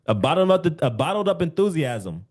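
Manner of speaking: "bottled up" stressed and lifted; emphatic. Shown as a demonstration. Coach stresses bottled up enthusiasm for callers. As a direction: lean on "bottled up".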